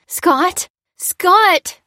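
calling out. A narrator's reading. Woman calls to her restrained husband, desperate. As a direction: reach him with your voice. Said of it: "she called out".

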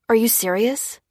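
mildly incredulous, rising question. Acted. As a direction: ask it in mild disbelief, voice lifting at the end. Dan objects to being searched.

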